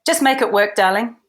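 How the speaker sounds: quoting the boss who waves her off; lightly voiced boss. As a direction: toss it off like an unbothered boss. Peter hands back the wig.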